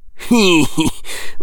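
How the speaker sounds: a spiteful caretaker's chuckle. A narrator's reading. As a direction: chuckle with malice. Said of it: "gave a chuckle".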